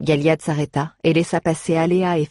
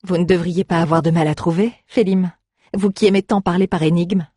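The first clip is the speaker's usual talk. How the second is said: teasing. Acted. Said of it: "se moqua Aléa".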